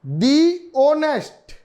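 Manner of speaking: "दी ऑनेस्ट" slow, with dee before the vowel sound. Shown as a demonstration. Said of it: "जैसे".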